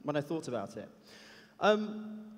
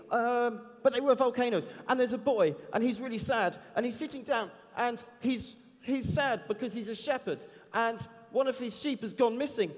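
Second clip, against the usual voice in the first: lightly voiced eager kid, pitched higher; a hint of a chatty boy from Harlem, higher; ten-year-old kid; 4 semitones higher than usual. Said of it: "I won't do his accent".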